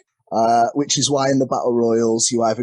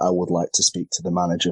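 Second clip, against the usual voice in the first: low, quick mock-formal customer; brisk, lower, mildly officious request; complaining customer voice; 4 semitones lower, faster than usual. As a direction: lightly put on a speak-to-the-manager voice.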